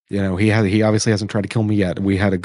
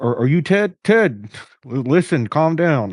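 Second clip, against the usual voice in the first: muffled speech, much higher pitch; 6 semitones higher than usual. In a role-play, a character with a hand over his mouth speaks, muffled through a hand. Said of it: "muffled, like saying".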